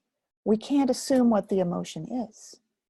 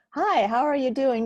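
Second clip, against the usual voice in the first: cheery hello; 5 semitones higher, 5 dB louder than usual. Pretend. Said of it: "how about if I said to you".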